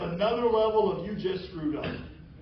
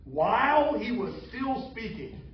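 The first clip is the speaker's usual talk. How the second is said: savoring the verse; slower than usual. Shown as a demonstration. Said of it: "I love how Scripture puts it".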